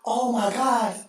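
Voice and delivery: high, slow, excited announcer; mock hype. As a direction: drag out the madness. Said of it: "next thing you go".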